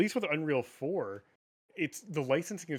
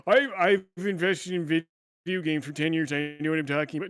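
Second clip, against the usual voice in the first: whiny investor voice; 5 dB louder than usual. Retold or imitated. Mocking the activist shareholder's letter in a whiny voice. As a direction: sneer it out like a self-important whiner. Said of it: "such a whiny bitch, uh, letter".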